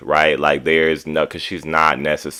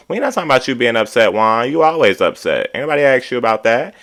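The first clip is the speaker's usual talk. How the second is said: high, rapid dismissive retort; mild mock hollering; 6 semitones higher than usual. Retelling a husband shutting down his upset wife, mock-irritated. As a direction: imitate an irritated husband cutting his wife off, higher and quicker. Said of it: "you're screaming and hollering over this phone".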